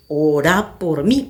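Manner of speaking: low, laboured plea, dragged out; imitated stammering plea. Frozen woman begging a relative for prayer, mimicked faltering speech. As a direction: imitate struggling to get the words out, slow and low. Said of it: "Balbuceando, le dije".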